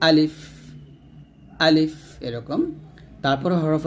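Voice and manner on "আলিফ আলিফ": "আলিফ" cut short without stretching; short alif. Shown as a demonstration. Teacher models the letter without stretching, short alif. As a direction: say "আলিফ" quickly, no drawn-out vowel. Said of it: "এখানে তাড়াতাড়ি পড়তে হবে".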